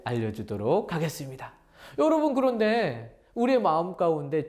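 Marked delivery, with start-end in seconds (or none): none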